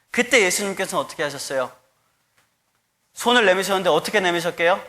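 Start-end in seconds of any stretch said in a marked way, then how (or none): none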